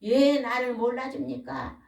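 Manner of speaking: mildly aggrieved, imitating a complainer; resentful complaint. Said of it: "이렇게 하나님 앞에 원망한다는 거예요".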